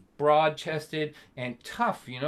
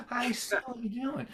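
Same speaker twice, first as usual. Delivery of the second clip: knowing son; 8 semitones higher, 6 dB quieter than usual. Retold or imitated. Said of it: "I go".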